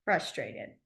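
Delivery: low demo. Shown as a demonstration. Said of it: "my chin right here".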